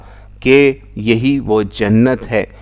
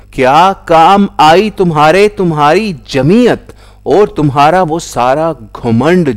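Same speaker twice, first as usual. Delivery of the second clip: louder, higher reproachful question; raised voice, challenging them; calling out; 5 semitones higher, 4 dB louder than usual. A narrator's reading. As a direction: call out a reproach. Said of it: "آواز دیں گے".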